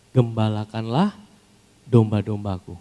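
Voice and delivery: slow, weighty, each word drawn out; slow solemn command. Acted. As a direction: lay the command down slowly. Jesus's command, slowed. (perintah khidmat yang diucapkan pelan)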